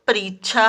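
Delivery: परीक्षा said wrongly with च्छ, "pareechchha"; mispronunciation demo. Shown as a demonstration. Teacher quotes a pupil's error to children, mispronounced. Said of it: "परीक्षा नहीं".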